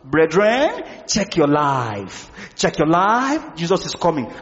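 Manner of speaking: low, slow warning to the brethren; sobering preacher. Acted. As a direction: imitate a solemn, sobering preacher. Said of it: "those messages that make you grow sober".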